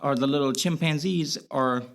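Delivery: slipping into a light Boston accent; casual talk with a Boston accent. Real, not acted. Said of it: "you having your Boston accent right now".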